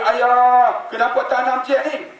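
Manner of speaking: a hint of a small daughter not understanding; lightly voiced little girl. Preacher voicing the daughter asking why: lightly childlike.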